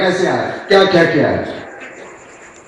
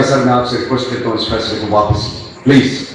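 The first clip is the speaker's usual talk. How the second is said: humble plea; 5 semitones lower than usual. Retold or imitated. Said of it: "بالکل عاجزی سے کہا".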